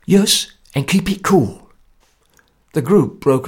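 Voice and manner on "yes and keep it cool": slow, measured foreign voice; Socher's voice. Acted. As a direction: say it slow and careful.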